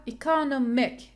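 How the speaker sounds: "economic" with the stress on NOM, second syllable from the end; e-co-NOM-ic, penultimate syllable stressed. Shown as a demonstration. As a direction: say "economic" as a teacher's model, leaning on the NOM. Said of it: "primary stress on the penultimate".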